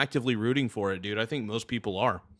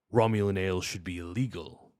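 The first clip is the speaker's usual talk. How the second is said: understated, lower Klingon officer; Worf; 4 semitones lower than usual. Acted. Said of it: "looking up famous Worf quotes".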